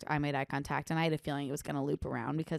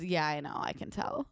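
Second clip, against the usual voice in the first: put-on snarky girl; 2 semitones lower, 3 dB quieter than usual. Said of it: "the girl goes".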